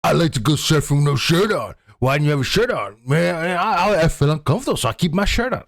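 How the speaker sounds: half-hearted Australian bro impression; playfully parrots the surfer in an Aussie accent; imitating Australian bro. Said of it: "You said".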